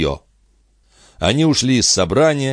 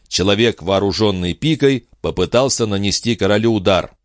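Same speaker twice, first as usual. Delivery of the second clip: plain reading voice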